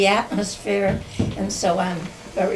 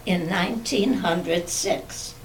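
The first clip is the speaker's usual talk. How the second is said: memoir reading. Acted. Reads written family memoir.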